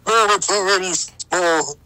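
loud protest. Acted. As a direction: blurt it out in alarm. Protesting the scissors.

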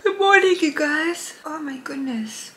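bright, loud morning hello; cheery greeting. Real, not acted. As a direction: greet them full of energy.

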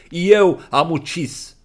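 slow, loud and high declaration; loud confession. Acted. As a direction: proclaim it for all to hear. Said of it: "spune tare să audă toți". (declarație tare, rară și înaltă)

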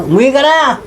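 shouting for him to come home, a mild mock yell; retold shout. (pasigaw na tawag, mataas ang boses)

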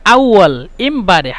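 আউয়াল ইমবারেহ said slowly, syllable by syllable; teacher drilling a phrase slowly; slow, careful demo. Shown as a demonstration. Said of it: "মিশরের ভাষা হলো আউয়াল ইমবারেহ".

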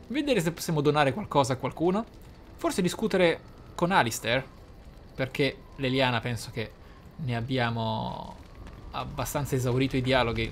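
normal talking voice

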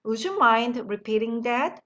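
very slow, every word laid out; slow model sentence. Shown as a demonstration. Teacher modelling the phrase slowly for the class. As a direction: spell it out slowly for learners to copy. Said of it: "기억했다가 사용하시면".

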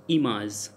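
"image" said as "ee-mahz"; French I as ee. Shown as a demonstration. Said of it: "So I pronounce like E".

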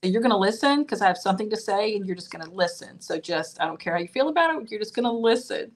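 brisk, insistent mom laying down the law. Acted. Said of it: "use your mom voice".

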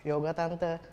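low, subdued polite reply; small, soft, deep-dropped answer; meek boyfriend. Acted. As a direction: answer the aunt quietly, voice dropped. Boyfriend meekly answers girlfriend's parent.

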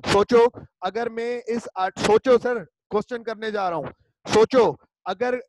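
ज़ोर से "सोचो" पुकारना; emphatic call. Real, not acted. Teacher calling class to think. (ऊँची आवाज़ में "सोचो" कहकर ध्यान खींचना)

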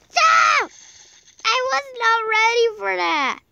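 high, loud frantic shouting; panicked yelling. Real, not acted. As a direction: yell in a panic. Panicking at game.

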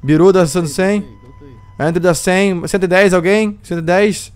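lively auction caller voice; auctioneer. Acted. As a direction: call out bids like an auctioneer. Runs a mock slave auction.

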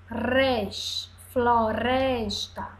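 floresta with a light tapped R; soft R. Shown as a demonstration. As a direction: say the R in floresta softly. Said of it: "Aí o som fica mais fraco".

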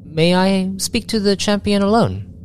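high-pitched admiral making a request; admiral character. Acted. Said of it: "And she's like".

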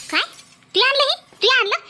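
can't believe the bride dared; stunned disbelief. Acted. Bride admits she brought it.

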